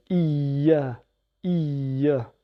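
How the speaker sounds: "Iya" with the y held and pressed; "Iya" said emphatically as iy-ya; stress on double ya. Shown as a demonstration. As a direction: lean hard on the doubled y in "Iya". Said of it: "Insistez bien sur les deux ya".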